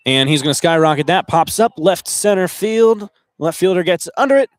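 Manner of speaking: loud, projected fly-ball call; live play-by-play. Real, not acted.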